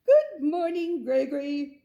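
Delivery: loud, high cheerful good morning; parents' sing-song morning greeting; cheery parents. Acted. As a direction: greet the child brightly. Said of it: "said Father and Mother Goat".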